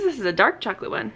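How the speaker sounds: usual speaking voice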